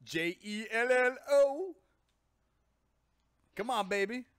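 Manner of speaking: loud, high mock yell, letters drawn out; Bill Cosby yelling. Host parodies a comedian yelling out, loud and high. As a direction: holler it out as a comic impression. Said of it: "Bill Cosby yells out".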